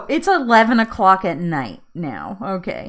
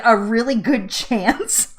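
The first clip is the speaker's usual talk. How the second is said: mocking quote; slower than usual. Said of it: "I'm not liking that she said".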